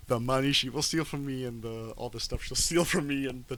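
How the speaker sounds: retold Fagin lyrics. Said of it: "as he keeps singing, he goes".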